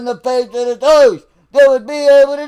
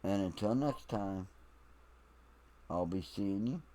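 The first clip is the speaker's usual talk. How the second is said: soft farewell; 20 dB quieter than usual. Real, not acted. Quiet closing blessing.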